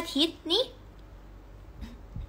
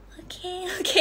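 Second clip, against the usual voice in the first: shaky okay; 8 semitones higher, 4 dB quieter than usual. Shown as a demonstration. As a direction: let โอเค quiver to sound hurt. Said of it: "ให้มีความสั่นนิดนึง". (ตอบ โอเค เสียงสั่นๆ สูงและช้า)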